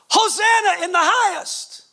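high, ringing acted shout; crowd's shout. Preacher voicing the crowd welcoming Jesus into Jerusalem, shouting. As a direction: cry it out like a jubilant crowd. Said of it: "screaming and crying out and shouting".

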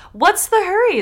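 fisherman. Acted. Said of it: "the fisherman asked".

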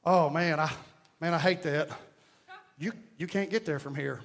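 soft, low, deadpan sympathy; hushed mock sympathy; calm deadpan. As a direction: play it straight and calm to sell the joke. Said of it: "I would just calmly say".

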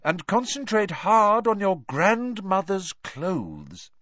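loud, high, slow and relishing; gleeful instructions. A narrator's reading. Teacher coaching Neville on the spell, loud and gleeful. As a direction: savour every comic detail.

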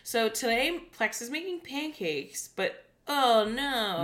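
high, drawn-out presenter imitation; mock-dramatic storytime for little kids; hammed-up announcement, last word stretched; kids' show host. Retelling in the host's put-on voice.

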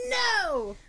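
put-on very high, indignant boy's cry; offended Peter Pan. Boy offended at being called man, high mock outburst. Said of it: "Peter's very offended when he mentions man".

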